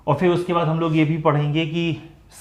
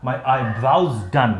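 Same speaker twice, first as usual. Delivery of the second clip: very slow, every word clear; slow example sentence; much slower than usual. Shown as a demonstration. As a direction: read the model sentence slowly. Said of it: "जैसे कि". (बहुत धीमे उदाहरण वाक्य)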